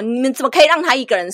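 fast, loud imitated rant; retold scolding. Driver blaming the hosts for leaving her alone, fast angry scolding. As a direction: rattle off the reproach like an angry stranger. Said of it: "一直骂他们".

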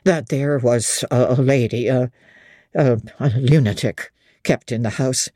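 a lightly voiced old host confiding gossip; innkeeper. Innkeeper voice read by narrator.

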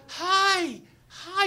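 high, loud repeated yell; urgent shouted warning. Retold or imitated. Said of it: "And he goes like this".

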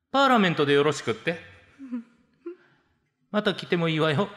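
lightly voiced haughty young lady; a hint of a condescending rich girl; haughty rich girl japanese. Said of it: "お嬢様口調のコンビニ店員". (お嬢様口調)

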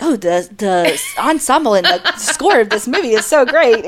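mock film-buff praise through laughter; laughing mock praise. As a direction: gush like a pretentious critic while laughing. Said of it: "they're like".

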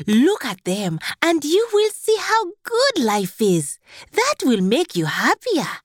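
high, wonder-filled voice of an adviser; high-pitched, hopeful servant; eager worker. A narrator's reading. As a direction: coax the king with storybook delight. Voices the king's cheerful worker.

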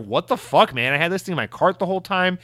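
mock indignant rant, easing off at the end; mildly heated complaint on others' behalf; imitated outrage. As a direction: imitate outraged customers venting in a stream. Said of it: "immediately outraged".

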